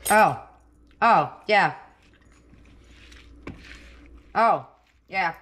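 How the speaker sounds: loud happy oh yeah after a bite; delighted tasting. Real, not acted. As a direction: savour it out loud, mouth full. Reacting after tasting the salad.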